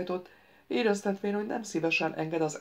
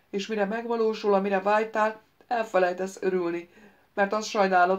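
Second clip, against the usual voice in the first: a capricious wizard lecturing the prince; lightly voiced ghost wizard. The ghost wizard lectures the prince: lightly voiced, eager. Wizard Ikvit's long speech.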